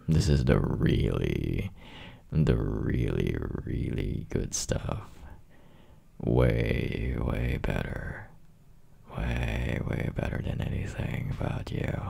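low, slow, lingering murmur; intimate, drawn-out appreciation; seductive admiration. Acted. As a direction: savour each repeated word, softening as you go. Seductively admiring partner's body.

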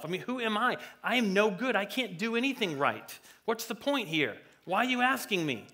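lightly acted helpless complaint; unconfident Moses. Moses doubting himself when God asks, acted lack of confidence. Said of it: "was not confident at all".

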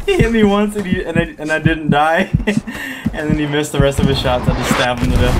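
high, giddy disbelief; excited laughing. Real, not acted. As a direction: gush about surviving the fight. Excited retelling of close fight.

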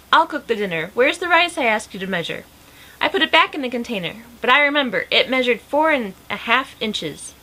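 animated read-aloud with lively character lines; lively storybook reading; story narration. A narrator's reading. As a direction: read a picture book aloud, lifting the dialogue.

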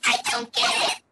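flat, even robot pony voice; toy robot voice. Pretend. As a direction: speak like a little toy robot. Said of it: "I am a robot pony".

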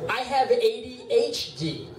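"have" slowed and leaned on, high-pitched; slowly correcting "I have A D H D"; stress on HAVE. Retold or imitated. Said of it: "they go".

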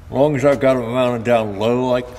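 talking around a marker held in mouth; words muffled by a pen in the teeth; mouth full. Real, not acted. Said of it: "sorry, I had a marker in my mouth".

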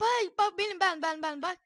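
loud, high, eager calls; excited calling out. Real, not acted. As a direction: call out to the friend excitedly. Oyunda heyecanla seslenme. (heyecanla seslenme)

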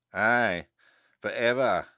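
grave, measured echo with a falling end; solemn echo. A narrator's reading. Abbot confirming the wizard's loss, solemn. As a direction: echo it solemnly, leaving a pause. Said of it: "echoed the abbot solemnly".

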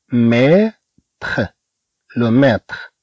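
ميتر ending in a kh-like R; French R like kh. Shown as a demonstration. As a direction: say ميتر with the R leaning to خ. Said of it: "آر تميل إلى الخاء".

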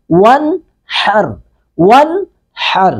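ون ہر with the nun of ون sounded fully clear before ہر. Shown as a demonstration. Teacher shows izhar of the nun in ون ہر. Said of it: "نون کو بالکل ظاہر کریں گے".

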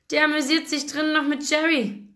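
amused, high-pitched delivery; laughing. A narrator's reading. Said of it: "lachte er".

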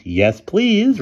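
high, loud falsetto reply; put-on girl voice. A narrator's reading. Boy posing as a girl accepts, falsetto. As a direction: answer in an exaggerated girlish falsetto.

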